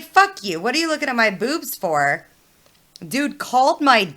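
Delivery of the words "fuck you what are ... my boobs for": retold angry comeback. Student confronting assistant principal about staring, angrily indignant. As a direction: fire back indignantly, pitch jumping up.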